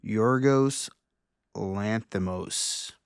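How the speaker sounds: Yorgos, then Lanthimos, each sounded out separately; careful name attempt. Real, not acted. Podcast host unsure of a Greek director's name, carefully sounding out "Yorgos ... Lanthimos". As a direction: say "Yorgos ... Lanthimos" carefully, pausing between the two names, Lanthimos drawn out slowly. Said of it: "I'm probably gonna butcher his name".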